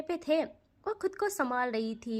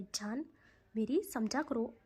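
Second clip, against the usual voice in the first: tender coaxing; 3 semitones lower, 4 dB quieter than usual. Acted. Soumya coaxing drunk Ridhi.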